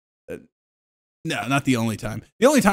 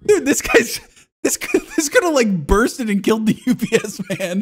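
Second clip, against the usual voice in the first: raised high amazed voice; 8 semitones higher than usual. Retold or imitated. Telling a cohost about the spring box, amazed and high. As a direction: sound astonished at the box. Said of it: "I'm like".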